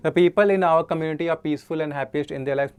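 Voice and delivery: slow dictation of the question; slow question read. Shown as a demonstration. Teacher reading the next question aloud, slowly. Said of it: "में error कहाँ पे है".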